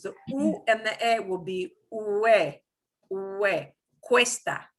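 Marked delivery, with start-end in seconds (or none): 1.9-4.7 "ue" glides from U into E, both heard; both vowels pronounced. Shown as a demonstration. Teacher showing all those vowels in cuesta, both vowels pronounced. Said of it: "we're gonna pronounce all those vowels".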